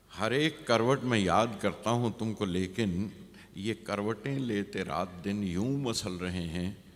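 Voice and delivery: measured verse reading, falling away at the end; poem recitation. Acted. Poet reads a stranger's diary to listeners, measured recitation. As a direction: recite the couplet, letting the last line sink.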